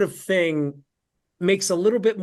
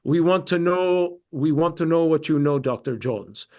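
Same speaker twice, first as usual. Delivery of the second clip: Russian accent. Shown as a demonstration. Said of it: "if I were doing a Russian accent or an Eastern Ukrainian accent".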